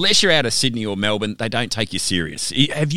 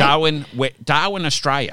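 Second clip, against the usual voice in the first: put-on broad Australian accent; 3 semitones higher than usual. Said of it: "why do we get a more broad Australian accent".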